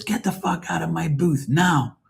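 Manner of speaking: retold angry captain. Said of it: "the captain of the boat turns around and says".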